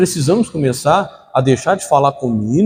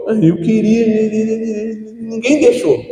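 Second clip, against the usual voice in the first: high, whiny sulking voice; sulky child; 7 semitones higher than usual. Acted. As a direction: pout it like a child denied.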